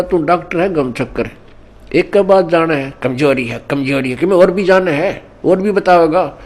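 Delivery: mildly acted irritation of an old patient; retold angry outburst. Old patient fed up with the doctor's one diagnosis, mock anger. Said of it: "बूढ़े को गुस्सा आ गया".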